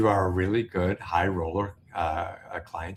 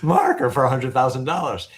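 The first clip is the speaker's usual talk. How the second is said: words broken by laughter, louder; laughing while retelling; 6 semitones higher, 8 dB louder than usual. Retold or imitated. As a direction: laugh through the line about the unpaid marker. Laughs retelling his own call.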